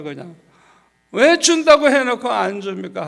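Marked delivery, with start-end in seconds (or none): 1.1-3.1 loud, high demand for an answer; confrontational protest. Retold or imitated. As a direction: act out arguing hard in prayer. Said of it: "막 따지면서".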